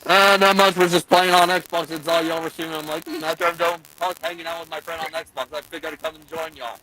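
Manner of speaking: crackly tinny mic sound; drive thru speaker. Real, not acted. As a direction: voice like a drive-through intercom. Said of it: "you sound like you're talking through a drive-through speaker".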